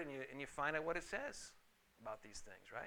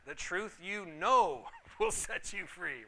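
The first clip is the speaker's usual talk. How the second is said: The truth you know, slow, with know held and stressed; 2 semitones higher, 6 dB louder, slower than usual. Retold or imitated. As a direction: lean on the word know. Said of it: "No, it doesn't say that".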